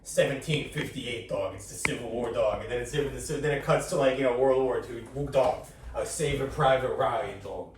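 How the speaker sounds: lightly imitated comic spinning tall tales; hint of a streetwise storyteller; Joey Diaz. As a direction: loose impression of a war-story braggart. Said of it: "But it's Joey Diaz".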